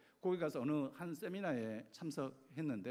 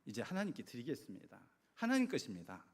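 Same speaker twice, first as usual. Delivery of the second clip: lightly acted prayer, mostly lowered voice; retold surrendering prayer; 4 semitones lower than usual. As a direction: hand it over to God, voice dropping then lifting at the end. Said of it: "하나님께 맡기는 기도를 했습니다". (맡기는 기도를 재연하듯 낮춘 목소리로)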